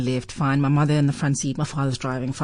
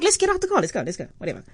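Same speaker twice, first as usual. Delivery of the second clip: put-on cocky little girl; 5 dB quieter, much faster than usual. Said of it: "So I'm like".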